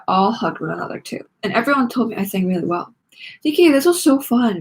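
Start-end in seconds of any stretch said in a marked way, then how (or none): 3.5-4.6 bright, eager gush, a little higher and louder. A narrator's reading. Friend gushing about the show. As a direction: gush to the bandmates after the show. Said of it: "Violet gushed".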